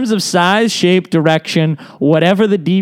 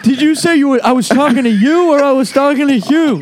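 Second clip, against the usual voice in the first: Bill Clinton voice; 7 semitones higher than usual. Pretend. Playing Bill Clinton, hard of hearing.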